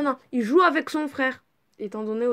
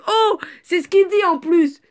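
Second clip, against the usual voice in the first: surprised oh; 7 semitones higher, 9 dB louder than usual. Real, not acted. Reacts to the story.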